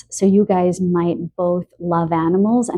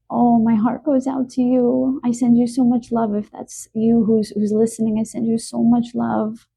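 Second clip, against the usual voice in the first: tender, high-pitched outpouring of sympathy; emotional; 5 semitones higher than usual. Real, not acted. Reader consoling a viewer who lost a pet, emotional. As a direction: voice lifted with feeling, sending heartfelt love. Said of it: "that's making me so emotional".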